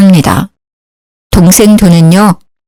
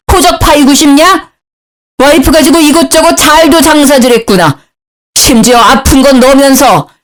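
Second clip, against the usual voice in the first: mock shout; 5 semitones higher than usual. A narrator's reading. Father-in-law scolding his son and wife, in a high, lightly voiced shout. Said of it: "소리를 빽 지르더군요".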